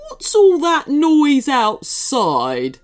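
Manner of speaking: slow, loud, high demand. Acted. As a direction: bark the question bossily. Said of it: "demanded the cupcake".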